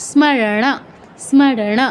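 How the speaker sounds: "স্মরণ" as sma-ra-na, final vowel kept; full m. Shown as a demonstration. Teacher modelling the correct word, "স্মরণ" as sma-ra-na. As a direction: sound m and closing a in "স্মরণ". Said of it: "ম এর পূর্ণ উচ্চারণ".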